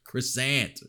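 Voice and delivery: "Croissant" ending in a hard American "ant"; un-French "croissant". Pretend. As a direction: say "Croissant" as cruh-SANT, no French vowels. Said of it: "they should just have him be like".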